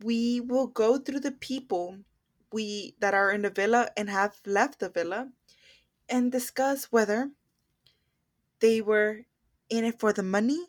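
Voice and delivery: slow, drawn-out show opener; podcast host intro. Acted. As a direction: announce the segment like a host. Opens a show segment.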